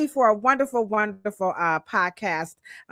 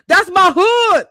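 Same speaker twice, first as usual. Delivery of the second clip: proud hood shout; 9 semitones higher, 8 dB louder, slower than usual. Real, not acted. Proudly showing the snowy hood.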